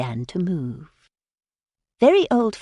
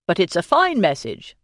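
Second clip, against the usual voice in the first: reassuring; 3 dB louder than usual. A narrator's reading. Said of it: "Weston assured her".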